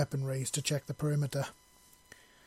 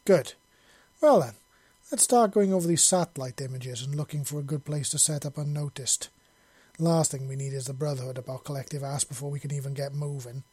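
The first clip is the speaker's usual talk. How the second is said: brisk, louder order to the team; brisk commander; 5 dB louder than usual. Acted. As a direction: wrap it up with authority. Fletcher closes the briefing.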